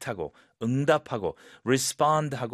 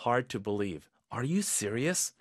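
doubtful; much slower than usual. Shown as a demonstration. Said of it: "약간 의심하는 톤으로".

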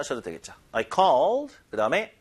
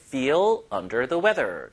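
slow model phrase; much slower than usual. Shown as a demonstration. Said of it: "컨디션이 안 좋다라고 할 때".

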